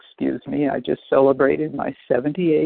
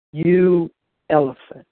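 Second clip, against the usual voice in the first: spat out with disgust; sneering at her own reflection; contemptuous; 2 semitones higher, 5 dB louder than usual. Retold or imitated. Self-insult at the mirror.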